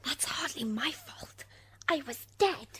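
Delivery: loud, indignant interjection; indignant protest. Acted. Wife defending herself from her husband's testimony, indignant and loud. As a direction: butt in loudly in your own defence.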